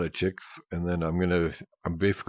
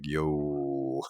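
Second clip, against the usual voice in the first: deep voice; 4 semitones lower, much slower than usual. Shown as a demonstration. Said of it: "I just talk my normal".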